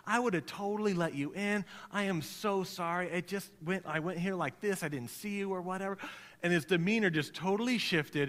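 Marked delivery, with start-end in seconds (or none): 0.1-6.0 mock sweet, gentle apology; sweetest voice. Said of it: "in her sweetest voice".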